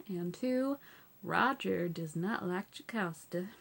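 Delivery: a hint of a Southern US accent, lifted on "and two". Shown as a demonstration. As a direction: casually slip back into a Southern American twang. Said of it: "And I went Southern again".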